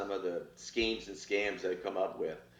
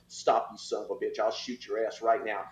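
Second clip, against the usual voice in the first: stern threat; 3 semitones lower, 4 dB quieter than usual. Retold or imitated. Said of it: "and I'm going".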